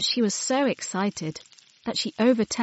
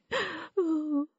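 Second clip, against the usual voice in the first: tearful gasp; 10 semitones higher, 6 dB quieter than usual. Acted. Crying alone.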